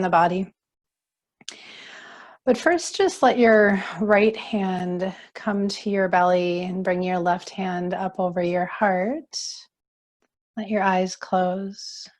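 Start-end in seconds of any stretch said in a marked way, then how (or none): 2.4-12.1 calm, unhurried yoga teacher voice; guided relaxation. Acted. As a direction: guide them gently into settling and breathing. Leads yoga breathing.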